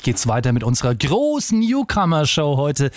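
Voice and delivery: upbeat TV host announcing the contestants; show host announcing. Acted. TV host announcing the next contestants in lively presenter voice. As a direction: sell each act like a chart-show presenter.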